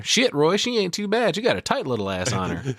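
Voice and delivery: lightly voiced sassy girl; high playful tease; high girly voice. Baby voiced.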